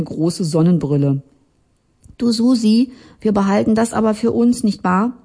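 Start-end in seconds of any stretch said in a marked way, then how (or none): 2.2-5.1 a slightly higher, pleading woman's voice; lightly voiced Jurte. Jurte asks to keep secret.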